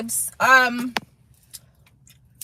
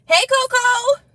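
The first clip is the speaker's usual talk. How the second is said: high sing-song greeting; pet voice; 9 semitones higher, slower than usual. Real, not acted. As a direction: call to the dog sweetly.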